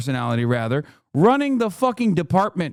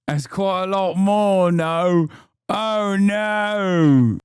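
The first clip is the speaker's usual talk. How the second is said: lightly hammed-up British accent of alarm; mock British dismay; slower than usual. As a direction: feign horror in a British accent. Mocks the lady's fear in accent.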